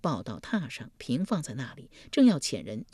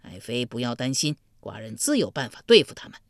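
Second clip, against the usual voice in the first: dismissive; 5 semitones lower than usual. Acted. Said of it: "不屑一顾道".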